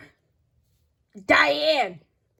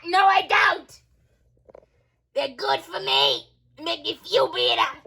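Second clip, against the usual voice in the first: put-on gruff old neighbor shouting; old lady voice. Old lady denies smoking.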